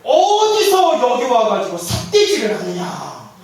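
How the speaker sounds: slow, heavy scolding with 어디서 leaned on; a stern elder telling someone off; stern scolding shout. Retold or imitated. Head monk scolds the old laywoman, slow stern rebuke. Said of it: "고함을 딱 지르면서".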